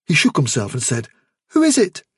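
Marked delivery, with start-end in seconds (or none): 1.5-2.0 high, confused question; dazed rabbit. Acted. Dazed Fiver.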